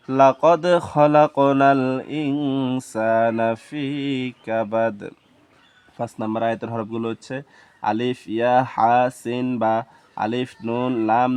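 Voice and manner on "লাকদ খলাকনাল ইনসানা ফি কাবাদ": very slow, stretched verse recitation; measured, drawn-out Arabic recitation; Quran recitation. Shown as a demonstration. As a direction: recite the verse slowly, holding vowels and nasal sounds.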